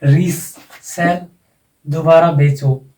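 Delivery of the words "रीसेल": रीसेल said slowly, री drawn out; secondary stress on री. Shown as a demonstration. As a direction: give री in रीसेल its own beat, slowly. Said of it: "secondary accent यहाँ आ जाएगा".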